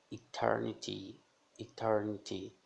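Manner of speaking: ETERNITY terminando em I claro; som de I. Shown as a demonstration. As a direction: diga o Y final de ETERNITY como I. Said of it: "vai ter o som de I". (ETERNITY devagar, com I no fim)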